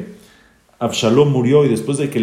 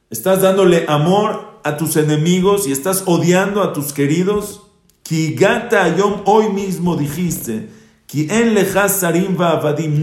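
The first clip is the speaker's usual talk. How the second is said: higher-pitched, heated scolding of the king; stern rebuke; 5 semitones higher than usual. Retold or imitated. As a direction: press the king hard with each accusation. Joab rebukes the grieving king. (reprimenda acalorada de Joab al rey)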